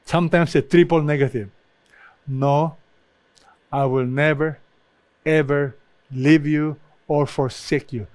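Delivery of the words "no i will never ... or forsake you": "No", then "never" and "ever" each set apart by pauses; deliberate pause after "No" and "never"; emphatic negatives. Shown as a demonstration. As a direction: weigh "No", "never", "ever" one by one. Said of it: "It's very emphatic".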